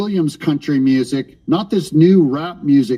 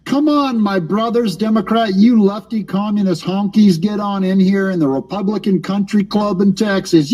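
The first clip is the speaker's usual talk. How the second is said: mock cowboy; 4 semitones higher than usual. Mocking Texas Republicans as cowboys.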